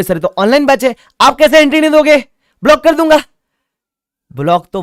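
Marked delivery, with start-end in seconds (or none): 0.0-2.2 mock protesting student, pitched much higher and louder; whiny student. Student objecting to the teacher about the online batch, mock whine. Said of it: "आप बोलोगे". 2.6-3.2 shouted much higher and louder; mock threat. Teacher answering the student's protest, playful shout.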